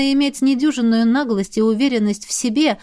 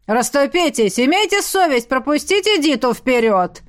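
приказ; 4 semitones higher than usual. Acted. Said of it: "приказал незнакомец".

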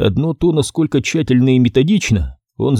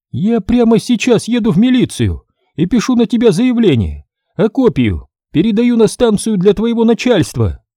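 гневная женщина, голос высоко; пригрози в гневе; гневно; 10 semitones higher than usual. Acted. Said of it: "её гневной речи". (женщина гневно грозит мастеру милицией)

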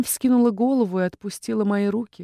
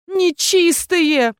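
quiet wail; 10 semitones higher, 5 dB louder, much slower than usual. A narrator's reading. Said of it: "взвыла она тихо".

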